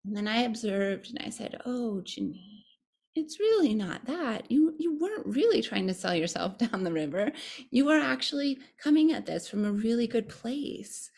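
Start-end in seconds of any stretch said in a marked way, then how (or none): 1.6-11.1 wise kind tone. Retold or imitated. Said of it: "most wise and kind tone".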